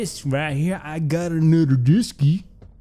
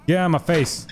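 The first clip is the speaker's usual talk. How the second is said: frustrated shout. Real, not acted. Yelling at the baby.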